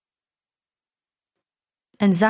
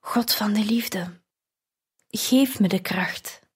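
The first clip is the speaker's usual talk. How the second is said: breathless whisper, softer; exhausted whispered prayer; 4 dB quieter than usual. A narrator's reading. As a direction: whisper it to God, spent and pleading. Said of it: "fluisterde ik".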